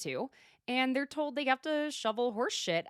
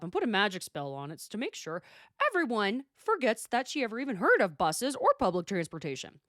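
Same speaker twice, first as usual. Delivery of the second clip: imitating Emily's rant. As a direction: act out Emily's escalating takedown of Tamara. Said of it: "Emily's like".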